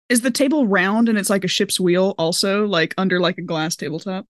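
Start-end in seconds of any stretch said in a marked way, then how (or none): none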